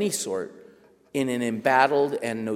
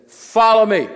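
much higher, louder barked military reply; Marine drill instructor; 10 semitones higher, 14 dB louder, slower than usual. Retold or imitated. Marine agent barking at the nervous writer, drill-instructor voice. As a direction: bark it like a drill sergeant.

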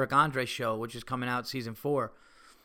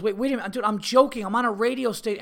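retold panicked backpedal; 9 semitones higher, 5 dB louder, faster than usual. Retold wife urgently backpedaling on radio prank.

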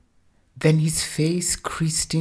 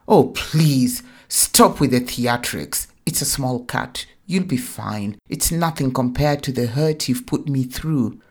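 scornful; 6 dB louder than usual. Acted. Wife scorns husband's theatrics.

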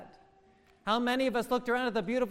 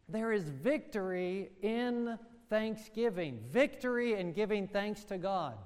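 soft closing; 4 dB quieter than usual. Acted. Closing line of the sermon.

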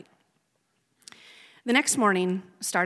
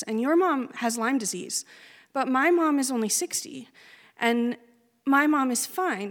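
stunned disbelief; 4 semitones higher than usual. Retold or imitated. Disbelief at news of mom's death.

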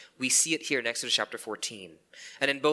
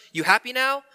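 louder, higher bitter sarcastic jab; 10 semitones higher, 6 dB louder than usual. Retold or imitated. Believer bitterly asking God if he is happy now. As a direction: throw it at God like a sulky accusation. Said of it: "our second question".

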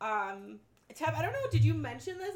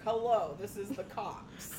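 masculine voice; 2 semitones lower, slower than usual. Retold or imitated. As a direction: put on a manly cop voice. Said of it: "like, a really, like, masculine voice".

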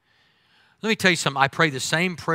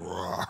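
soft lion roar; 8 semitones lower, 11 dB quieter than usual. Retold or imitated. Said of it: "like the Wizard of Oz lion".

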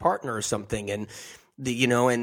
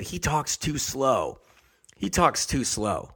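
slowly, word by word; slow drawn-out quote; 2 semitones higher, slower than usual. Retold or imitated. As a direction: mimic a slow, dragging talker. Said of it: "and they said".

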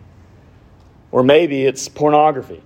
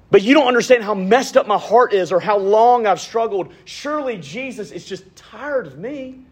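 mock despair; 9 semitones higher than usual. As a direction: play the worn-out sinner, high and small. Voicing a despairing listener.

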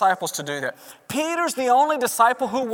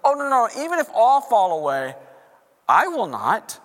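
impulsive Peter. Retold or imitated. Preacher acting Peter's overconfident protest. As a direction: play Peter brushing the warning off. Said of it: "Peter responds right away and he goes".

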